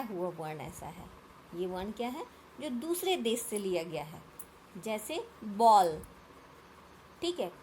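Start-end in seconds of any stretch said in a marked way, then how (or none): 5.5-6.0 बॉल loud, with a rounded English aw; rounded vowel demonstration. Shown as a demonstration. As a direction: model बॉल with rounded mouth. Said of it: "मुंह थोड़ा घुमाना पड़ेगा". (बॉल, मुंह गोल करके ज़ोर से)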